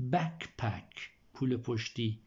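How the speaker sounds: بکپک said slowly, syllable by syllable; slow repeat. Shown as a demonstration. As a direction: drag out بکپک for the class. (بکپک را آهسته و شمرده تکرار کن)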